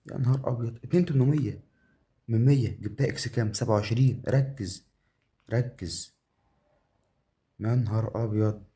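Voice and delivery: high, worked-up counting of winnings; thrilled gamer commentary; astonished excitement. Real, not acted. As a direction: marvel at the win, pitch up. Big win still being counted.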